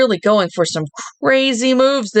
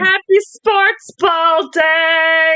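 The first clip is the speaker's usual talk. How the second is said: excited; 7 semitones higher, much slower than usual. Acted. Cheery sign-off at show end.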